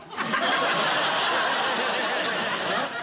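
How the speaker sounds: rising, teasing laugh at Jones; mocking laugh. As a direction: laugh at him, enjoying the joke. Teases Jones with bad news.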